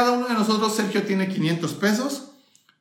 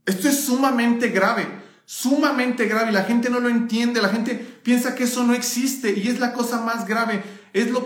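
getting riled up about it; worked up; 4 semitones higher than usual. Real, not acted. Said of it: "Perdón, ya me alteré".

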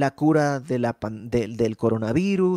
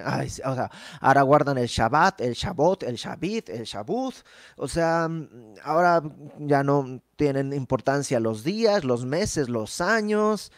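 mocking tone. Pablo teasing the Galatians for keeping sacred days, mild mocking tone. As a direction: poke fun at them, lightly. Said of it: "Pablo, un poco así como en tono burlón".

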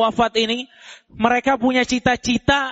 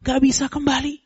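pleading dead; 3 semitones higher than usual. Acted. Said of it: "Mereka bilang".

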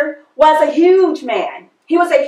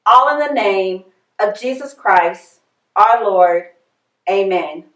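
measured, reverent prayer voice, slowing on key lines; solemn church invocation; opening prayer; 2 semitones lower than usual. Acted. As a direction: pray aloud over the congregation.

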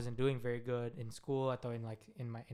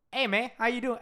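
louder, higher loose bro greeting; high loud casual hey man; African American slang; 8 semitones higher, 5 dB louder than usual. Shown as a demonstration. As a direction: hype it like greeting a basketball friend.

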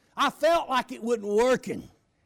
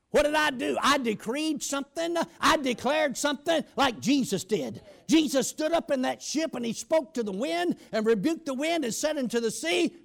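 ordinary delivery

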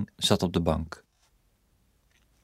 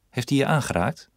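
higher, pressing question with hij rising; urgent question; 6 semitones higher than usual. Acted. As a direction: press her for an answer. Husband presses wife, urgent. (dringend en hoger gevraagd)

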